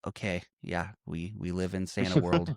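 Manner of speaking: low, soft, done-with-it voice; mock weary resignation. Voicing the elf who is done with Santa world, weary. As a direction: drop it low, as if past caring.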